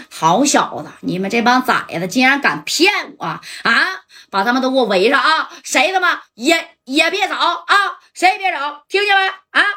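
anger building to a high yell at the end; furious boss. Retold or imitated. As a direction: order his men to surround them, rising fury. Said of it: "苏梦强就说呀". (越说越怒地下令围人)

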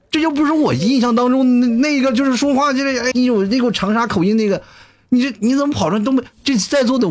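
can't take it anymore, laughing at her accent; exasperated. Real, not acted. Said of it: "那个崩溃".

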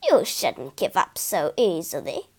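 put-on an old woman gently chides the weary girl; croaking old woman. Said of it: "croaked a voice".

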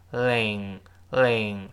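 slow "ling" with the tongue tip touching behind the upper teeth; teacher demo of an English L in "ling"; forward-tongue L. Shown as a demonstration. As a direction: draw out "ling" without curling the tongue. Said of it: "注意舌尖往前指".

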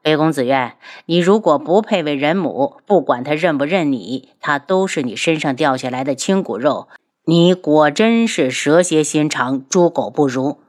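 a prince's icy disdain; cold sneer. Acted. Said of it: "轩辕志冷笑". (冷笑着，低沉轻蔑)

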